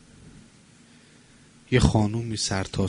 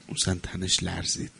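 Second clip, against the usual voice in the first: 'اون زن تنش لرزید' repeated much softer and lower; soft, lowered retelling of 'اون زن تنش لرزید'; hushed echo; 4 semitones lower, 7 dB quieter than usual. Shown as a demonstration. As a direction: let 'اون زن تنش لرزید' fall to a hush.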